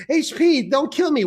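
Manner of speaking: high, timid imitation of a woman; hammed-up nervous feminine voice; mock female coworker. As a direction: pitch it up like a pleading female coworker. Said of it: "I was a female coworker".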